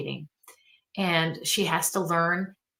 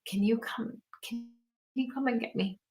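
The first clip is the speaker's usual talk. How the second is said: small, soft plea of a daughter; mild, quietly upset imitation of a daughter; devastated child; 3 semitones higher, 5 dB quieter than usual. Daughter texting her mom to come get her, gently devastated. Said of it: "she's so devastated".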